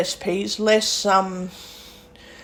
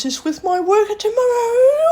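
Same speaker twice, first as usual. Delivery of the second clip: laughing; 4 dB louder than usual. Real, not acted. Laughing while planning with worker.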